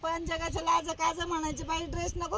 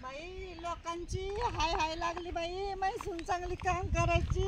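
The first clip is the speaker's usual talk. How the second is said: much softer, grieving under her breath; soft lament; 8 dB quieter than usual. Acted. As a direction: sigh it out to herself. Mourning after outburst. (हळू आवाजात दुःखी विलाप)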